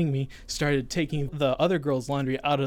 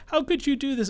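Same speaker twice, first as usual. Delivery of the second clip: high indignant mock yell; 12 semitones higher than usual. Girls defending him scold the other girl, mock yelling. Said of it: "they start yelling at her".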